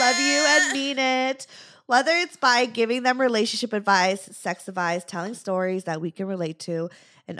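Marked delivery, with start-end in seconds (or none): 0.0-1.5 slow, higher voice on the edge of tears; choked up. Real, not acted. Host tears up thanking a listener, slow and choked. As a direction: say it like you're about to cry. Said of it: "I'm so emotional".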